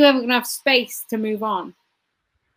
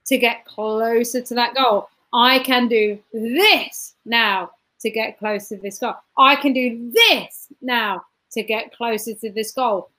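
measured, grounded repetition; calm affirmation; 3 semitones lower than usual. Shown as a demonstration. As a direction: say it like a mantra, calm and low. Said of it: "focus on the now and say".

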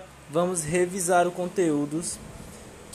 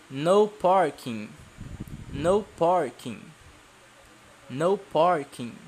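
to someone hard of hearing; slower than usual. Shown as a demonstration. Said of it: "Não estou ouvindo vocês repetirem".

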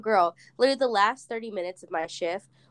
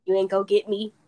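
mock defiance; 3 semitones higher, 6 dB louder than usual. Retold defying sad songs.

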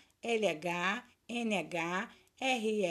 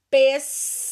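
syllable by syllable; 2 semitones higher, 11 dB louder than usual. Shown as a demonstration. Teacher dictating to pupils who look for digraphs, syllable by syllable. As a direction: separate each syllable clearly. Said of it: "Separa as sílabas".

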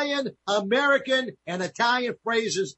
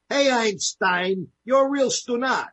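mock insult; 4 semitones higher, 3 dB louder, slower than usual. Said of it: "First one".

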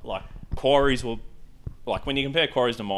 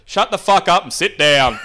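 mock angry snap; 7 semitones higher, 8 dB louder than usual. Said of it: "and he said".

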